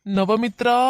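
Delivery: drawn-out searching call; loud calling out. Acted. Searching for missing Navamitra, shouting the name. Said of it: "நவமித்ரான்னு கத்திட்டு இருக்கா".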